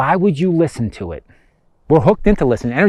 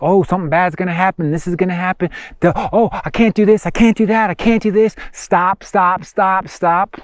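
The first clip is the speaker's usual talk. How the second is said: higher-pitched, mock-fretful chant of objections; anxious inner voice; 4 semitones higher than usual. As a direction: imitate a nagging voice of self-doubt. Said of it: "Doesn't that voice show up? Telling you, like".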